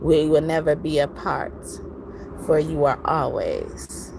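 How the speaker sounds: lightly recited poem, measured phrasing; poem reading. Acted. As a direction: read it like a love poem. Reads a poem aloud.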